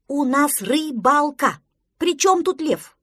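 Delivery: slow, high, loud indignation; exasperated protest. Acted. Duckling scolds friend about lion game, exasperated.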